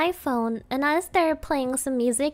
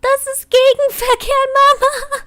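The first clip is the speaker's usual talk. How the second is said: high, loud panicked German yelling; panicked shouting; 10 semitones higher, 9 dB louder, slower than usual. Retold or imitated. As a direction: scream at mom that it's oncoming traffic. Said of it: "But when my mama drives, I'm like".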